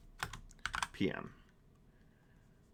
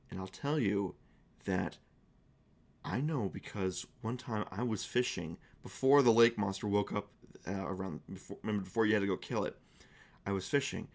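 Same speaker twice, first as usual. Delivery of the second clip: hushed, nervous secret-telling, softer; a scared barkeep spilling a secret in a low hush; shaken and worried; 3 semitones lower, 5 dB quieter than usual. Acted. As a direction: barkeep nervously confiding where the sword lies, softly. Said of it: "Ed seems very shaken and worried".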